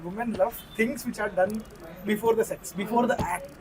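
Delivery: speaking up slightly. Real, not acted. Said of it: "Be loud కొంచెం".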